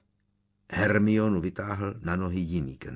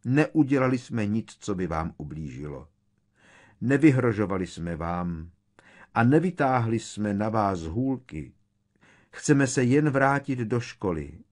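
tearful pleading; 4 semitones higher, 6 dB louder than usual. A narrator's reading. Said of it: "rozkutálely opravdové slzy".

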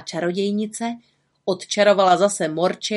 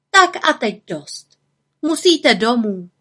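higher, slow, louder firm little witch; witch ending it; 4 semitones higher, 4 dB louder than usual. Acted. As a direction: send the children home kindly but firmly. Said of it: "Potom ale řekla".

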